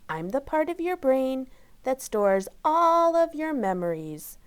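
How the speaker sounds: a hint of a gentle grandmotherly woman; lightly voiced kind lady. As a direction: Mrs Pickles introducing herself to Rosie. Voices Mrs Pickles.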